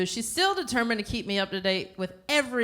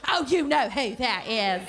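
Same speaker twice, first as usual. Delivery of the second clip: drawn-out, higher nagging insistence; insistent mom; 4 semitones higher than usual. Retold or imitated. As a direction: imitate a mother who won't believe you. Mother insists in acted phone call.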